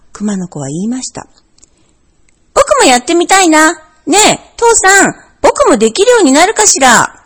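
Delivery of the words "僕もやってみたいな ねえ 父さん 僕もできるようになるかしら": higher, eager little cub voice; a small child tugging at dad's sleeve; curious bear cub. A narrator's reading. Bear cub asks father why, curious and eager.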